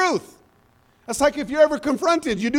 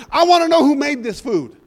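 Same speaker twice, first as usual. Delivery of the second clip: louder mock-angry demand; retold angry demand; 4 semitones higher, 5 dB louder than usual. Preacher retells a mad diner addressing everybody, mock-angry. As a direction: imitate an irate diner demanding answers. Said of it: "he was, he was mad".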